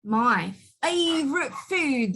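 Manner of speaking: slow monster savouring the words; lightly voiced, slow storybook monster; Gruffalo voice. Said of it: "the Gruffalo said".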